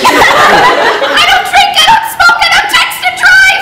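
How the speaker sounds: put-on high, slow, sing-song good girl; mock the perfect child, sweetly; goody-goody teen.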